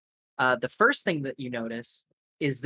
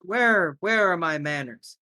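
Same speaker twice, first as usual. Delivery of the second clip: higher, showy host introducing guests; lightly raised gracious host voice; courteous host; 4 semitones higher than usual. Acted. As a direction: present the guests with a flourish.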